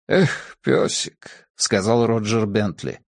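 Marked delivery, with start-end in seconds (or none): 0.1-1.5 whispered, slow sigh of grief; father whispers farewell to the dog; sad whisper. Acted. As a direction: breathe it out, grieving.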